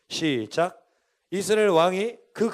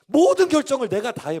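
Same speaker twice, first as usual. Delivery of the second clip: emphatic preaching; 7 semitones higher, 8 dB louder than usual. Real, not acted. Preacher hammering self-reliance.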